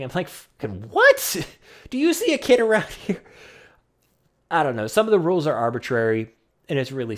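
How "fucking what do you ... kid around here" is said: incredulous and giggling; laughing disbelief. Retold or imitated. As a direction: retell the outrage while cracking up. Retelling outrage at the cashier.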